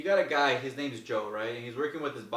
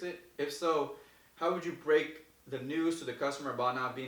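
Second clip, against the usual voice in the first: reading a question. Real, not acted. Reads viewer question.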